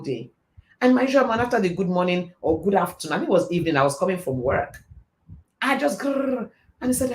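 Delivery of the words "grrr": imitated fast stammered gabble; mock gabble of words tumbling out; garbled rush of speech. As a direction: rush it out as a higher garbled burst. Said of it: "I speak like a thousand words per minute".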